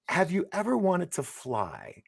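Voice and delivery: high, slow, drawn-out teaser line; dramatic film pitch. Retold or imitated. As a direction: pitch it grandly, stretching the words. Improvised movie pitch to actress.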